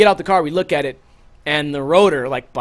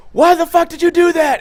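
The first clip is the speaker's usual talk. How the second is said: shocked friends; 11 semitones higher, 4 dB louder than usual. Retold or imitated. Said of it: "everyone's just like".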